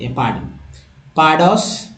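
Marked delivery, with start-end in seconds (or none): 0.1-0.4 पार्डन said low and softer, as a closing model; soft model word. Shown as a demonstration. Teacher repeats पार्डन for students, softly. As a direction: say पार्डन once more, softly. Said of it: "ऐसे बोलते हैं".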